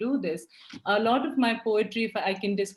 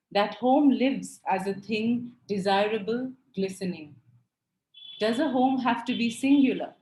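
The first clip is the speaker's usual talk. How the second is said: measured poem recital, each line lifted at its start; poetry reading. Acted. Poet reads her resistance poem about home to listeners, measured recital. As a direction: read it as verse, pausing between lines.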